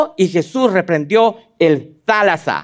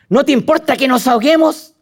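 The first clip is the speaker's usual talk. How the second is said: mock cry; 7 semitones higher than usual.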